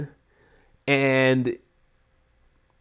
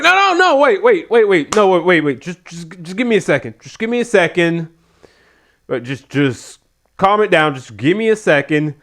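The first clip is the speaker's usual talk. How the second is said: high panicked begging, settling down toward the end; panicky pleading; 4 semitones higher than usual. Retold or imitated. Mimicking a nervous wrestler begging the assistants to wait, panicky. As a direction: imitate a wrestler losing his nerve. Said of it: "sounding like he's getting cold feet".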